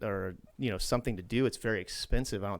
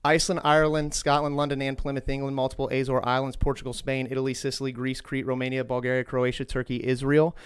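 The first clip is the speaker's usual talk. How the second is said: rapid list; 3 dB louder than usual. Real, not acted. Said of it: "take a deep breath".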